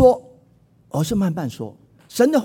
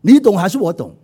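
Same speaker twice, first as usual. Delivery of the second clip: angry wife; 6 dB louder than usual. Retold or imitated. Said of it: "烦了就发脾气了".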